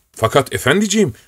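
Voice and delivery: put-on a flustered old retainer begging his young master; old servant protesting.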